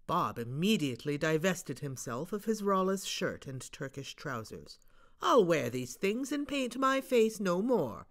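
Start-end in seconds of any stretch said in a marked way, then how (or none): 5.2-8.1 Bob. Acted. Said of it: "said he".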